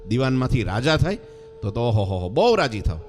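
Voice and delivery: a touch of a mother's gleeful oho; delighted mother. Acted. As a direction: coo with pleasure at the offer. Mother voiced delighting at son's kingship.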